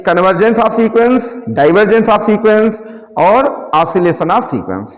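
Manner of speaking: very slow, each word spaced for note taking; slow dictation. Shown as a demonstration. Teacher slowly dictating the three sequence types to students. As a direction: spell out the three terms slowly for the class to write.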